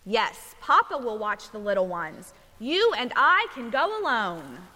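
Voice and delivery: measured picture-book storytelling; reading to children. A narrator's reading. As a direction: read a bedtime story to little ones, giving each line room.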